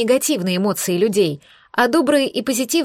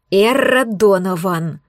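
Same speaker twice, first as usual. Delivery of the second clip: slow, drawn-out name, a mild growl; a hint of a growling boss; name said slowly with restrained anger; growled, understated; slower than usual. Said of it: "прорычал шеф".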